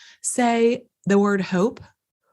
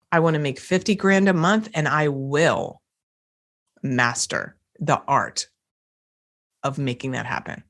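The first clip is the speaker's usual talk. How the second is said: calm certainty, lower and unhurried; definite, powerful; 4 semitones lower than usual. Shown as a demonstration. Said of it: "Completely different energy".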